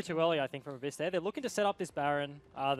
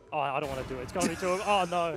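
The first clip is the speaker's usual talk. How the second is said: mock English accent; 4 dB louder than usual. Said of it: "he has an English accent".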